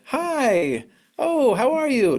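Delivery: imitating high, over-cheery greeting; upbeat. Friends visiting a grieving mother to cheer her up, mock upbeat. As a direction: put on a sing-out, cheer-up hello.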